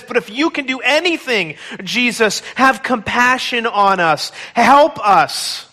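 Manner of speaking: pleading, voice close to tears; desperate tearful plea. Acted. Father begging Jesus to save his son, tearful plea. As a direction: beg for help through tears. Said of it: "a desperate plea through tears".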